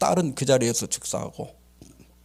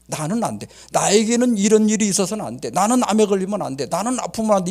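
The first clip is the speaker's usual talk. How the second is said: lightly acted stubborn refusal, a bit louder; mock insistence; 4 semitones higher, 4 dB louder than usual. Sufferer refusing to accept illness, insistent protest. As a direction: insist that it must never happen to you. Acts out self-centred insistence.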